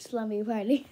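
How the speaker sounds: slumby party called out loud and bright; slumby said loudly with a rising end; loud repeat. Real, not acted. Laughs, repeats the slip loudly.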